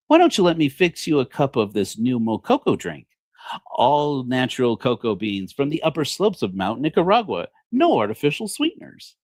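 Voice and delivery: chirpy product-placement housewife, lightly voiced; ad-pitch wife. Wife pitching a drink to her husband, mock ad voice. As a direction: sell the drink like a TV ad. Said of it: "his wife turns to him and gives him a program product placement".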